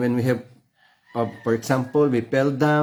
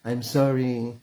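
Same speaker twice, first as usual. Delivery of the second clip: sorry prayer. Shown as a demonstration. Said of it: "trust it to our Heavenly Father".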